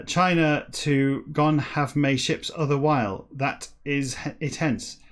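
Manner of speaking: slow, deliberate book reading; declaimed reading. Acted. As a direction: declaim each word of jumbled text with weight. Reads jumbled book text aloud.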